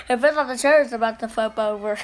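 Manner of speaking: giggling through the words; laughing. Real, not acted. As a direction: laugh as the chair tips. Laughing while spinning.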